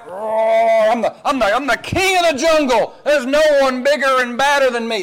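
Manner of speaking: swagger like the king of the jungle; boastful roaring lion. Acted. Preacher voicing the lion's boast, a puffed-up bragging roar.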